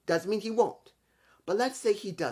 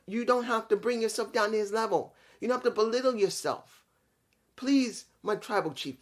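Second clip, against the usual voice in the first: higher pitched, earnest begging voice; imitated pleading; 5 semitones higher than usual. Sami pleading with Roman to end the beatdown, higher begging. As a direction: plead with him to spare the man.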